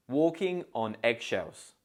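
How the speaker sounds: "Walking" stressed on "walk", slowly. Shown as a demonstration. Teacher stressing the first syllable of "Walking". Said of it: "stress the first syllable".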